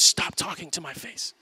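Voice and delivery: a lightly put-on toddler voice, firm brush-off; imitating toddler daughter. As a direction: play the two-year-old waving dad away. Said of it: "She goes".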